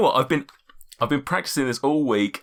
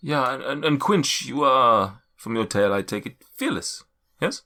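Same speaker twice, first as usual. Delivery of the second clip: mystic figure's voice. Acted. Seer addressing each adventurer in turn, solemn. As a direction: speak like an ancient seer.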